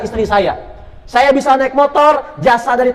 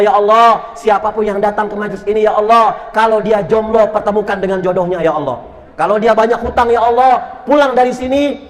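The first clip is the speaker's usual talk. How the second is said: fervent closing supplication, rising on each plea; earnest prayer. Acted. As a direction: lead the congregation in heartfelt prayer. (doa penutup yang khusyuk dan penuh harap)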